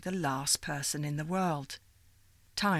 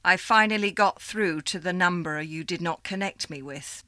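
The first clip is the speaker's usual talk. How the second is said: a bit louder, formal caller; 5 dB louder than usual. Acted. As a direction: keep the caller stiff and official. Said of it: "the voice said".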